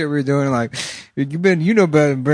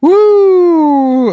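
excited; 8 dB louder than usual. Real, not acted.

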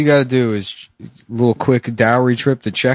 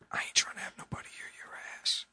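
whispering; 21 dB quieter, faster than usual. Acted. Whispered complaint.

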